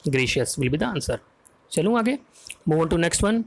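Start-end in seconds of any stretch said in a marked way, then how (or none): 0.1-1.2 slow recap. Shown as a demonstration. Quiz answer repeated slowly.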